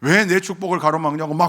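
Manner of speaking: retold indignation. Preacher retelling the deaconess's protest at being silenced, indignant. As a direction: imitate an offended worshipper protesting. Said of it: "화를 내세요".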